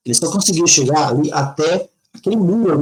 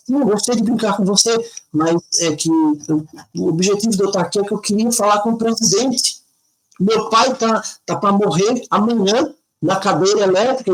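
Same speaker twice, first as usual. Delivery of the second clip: put-on pleading child; 5 semitones higher than usual. Boy explains his father's fate.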